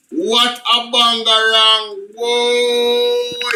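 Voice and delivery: bangarang stretched slow, savoring it; drawn-out exclamation. Shown as a demonstration. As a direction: let bangarang linger long and slow. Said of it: "repeated slower".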